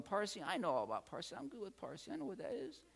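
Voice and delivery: confident student. Retold or imitated. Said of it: "you'll be going".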